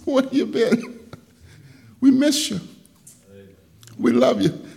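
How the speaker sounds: drawn-out joyful welcome; laughing greeting. Retold or imitated. Men greeting him joyfully.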